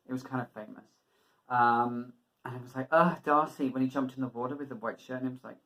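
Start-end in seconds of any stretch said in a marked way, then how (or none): 2.9-3.7 louder, higher mock-swooning fan. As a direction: swoon over him like a gushing fan. Mimicking swooning fans.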